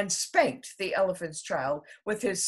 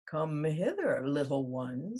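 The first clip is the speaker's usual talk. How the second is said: crocodile; 4 semitones lower than usual. A narrator's reading. Crocodile speaks.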